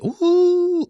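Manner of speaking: high, loud ooh of shock; a sudden high ooh. Real, not acted. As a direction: react like the comment stung. Reacting to a savage comment.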